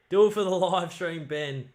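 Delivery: loud, pleading urge; will the ball through the posts; excited urging. Real, not acted. Urging the kicker.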